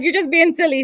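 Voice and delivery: goofing around with friends in a hammed-up Arab accent; silly Arab accent. Teasing friends, hammed-up silly Arab accent. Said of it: "going into, like, the silly accent".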